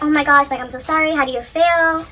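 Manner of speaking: gentle retold apology, easing off at the end; calm and collected. Wife consoling her partner instead of going off, calm and collected. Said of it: "So she stayed calm, cool, and collected".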